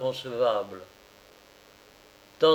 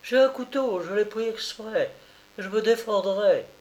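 defiant threat; 9 semitones higher than usual. A narrator's reading. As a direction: declare she will defend herself. Repeats it louder.

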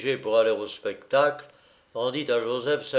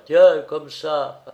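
laughing cook; 4 semitones higher, 5 dB louder than usual. A narrator's reading. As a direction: tease in a high, amused cook's voice. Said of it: "La rieuse cuisinière".

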